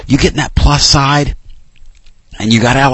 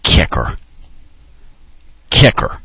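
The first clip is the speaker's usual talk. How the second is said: low, quiet, accusing mutter of kicker; teammates muttering kicker; 9 semitones lower, 4 dB quieter than usual. Retold or imitated. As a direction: teammates in the locker room glare at the kicker, low muttered blame. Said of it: "and they're going".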